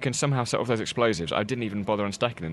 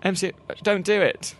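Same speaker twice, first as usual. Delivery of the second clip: alarmed shout; 8 semitones higher than usual. Acted. Pleading with the bus driver.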